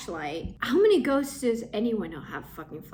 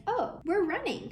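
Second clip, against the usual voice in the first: voicing the dog; 9 semitones higher than usual. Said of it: "even Lotus at this point is like".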